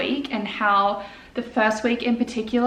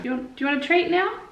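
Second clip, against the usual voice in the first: squeaky puppy talk; 6 semitones higher, faster than usual. Real, not acted. Offering dog a treat.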